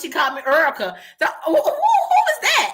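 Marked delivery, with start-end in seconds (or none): 1.2-2.7 high squeal through laughter; giggling disbelief; laughing. Real, not acted. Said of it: "You said Erica".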